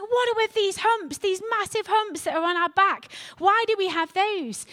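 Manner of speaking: put-on baby camel voice. Baby camel asks his mum.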